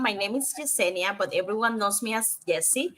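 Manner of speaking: normal talking voice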